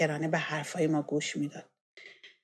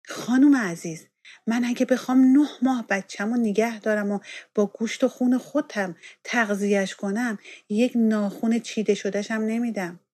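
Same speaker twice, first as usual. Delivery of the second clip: sharp, louder, higher retort; sharply; 4 semitones higher, 5 dB louder than usual. Acted. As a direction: snap back at the doctor with raised voice. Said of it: "با تندی گفتم". (با تندی و صدای بلندتر)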